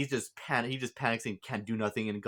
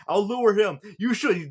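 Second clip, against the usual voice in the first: yelled high and loud in panic; a mechanic shouting to Koichi as he runs toward the plane, panicked yell; 10 semitones higher, 8 dB louder than usual. Retold or imitated. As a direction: shout it across the chaos.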